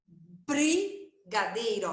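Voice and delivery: brigadeiro bem lento, o br esticado; palavra silabada. Shown as a demonstration. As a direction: alongue cada sílaba de brigadeiro. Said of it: "Já tô falando o som do B, do R". (brigadeiro bem devagar)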